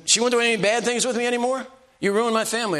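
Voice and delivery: retold rant from the threatening husband; angry complaint. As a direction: voice the man's wounded fury.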